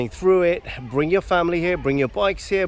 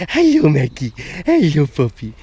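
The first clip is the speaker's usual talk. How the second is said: louder, happy hello to the dog; cheery dog greeting; 6 dB louder than usual. Real, not acted. Greeting Mackie in the water, loud and happy. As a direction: greet the dog loudly and gladly.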